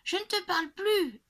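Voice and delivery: put-on very high, loud child's yell; screaming child. A narrator's reading. Girl storming off to her room, yelling at dad. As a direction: scream it like a furious little girl. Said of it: "en hurlant".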